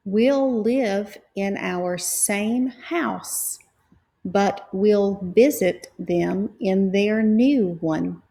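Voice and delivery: slow, careful shared reading; slow practice read. Shown as a demonstration. Teacher reading slowly together with students. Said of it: "Now let's practice together".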